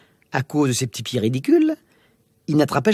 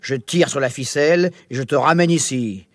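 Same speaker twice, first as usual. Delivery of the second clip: low monster warning; 2 semitones lower than usual. Acted. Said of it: "ajouta le monstre poilu".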